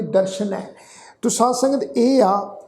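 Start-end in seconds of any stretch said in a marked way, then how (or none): 0.0-0.6 ਦਰਸ਼ਨੈ with a clear "sh", as darshanai; sh sound. Shown as a demonstration. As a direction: say ਦਰਸ਼ਨੈ with sh, not s. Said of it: "ਸੱਸੇ ਪੈਰ ਬਿੰਦੀ ਲਗਾ ਕੇ".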